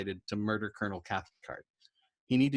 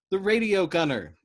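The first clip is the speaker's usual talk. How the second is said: loud, high pleading cry; begging; 9 semitones higher, 6 dB louder than usual. Acted. Dobbs begs Yossarian over the intercom, loud. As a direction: beg desperately. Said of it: "Dobbs begged".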